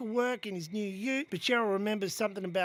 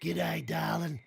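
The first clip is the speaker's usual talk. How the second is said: lower, slow Aussie godmother; fairy godmother; 4 semitones lower, 3 dB quieter, slower than usual. Acted. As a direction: drawl it like a broad Aussie auntie. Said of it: "Madge appeared and said".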